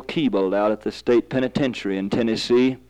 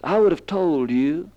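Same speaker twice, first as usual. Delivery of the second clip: "I would have told you" pitched higher, weight on "would"; emphatic "would have told"; 4 semitones higher than usual. Shown as a demonstration. Preacher showing where the verse's emphasis lies, stressed "would". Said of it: "we need to make the emphasis".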